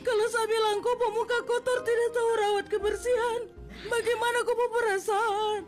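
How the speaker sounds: steady, wounded confrontation; hurt speech. Acted. Bullied Nola confronting coworkers, steady wounded voice. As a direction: calmly call them out.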